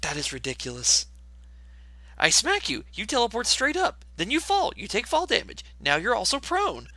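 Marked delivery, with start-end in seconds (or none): 2.2-6.9 rising, excited play-by-play; excited narration. Acted. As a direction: build the combo gleefully. Acting out spell combat.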